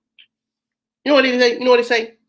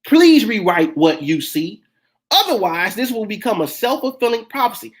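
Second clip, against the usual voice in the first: Please rewrite that said slowly and firmly, each word weighed; slow, firm appeal to a friend to rewrite her post; slow, firm advice. Retold or imitated. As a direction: lean on Please, slow and deliberate. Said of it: "I said".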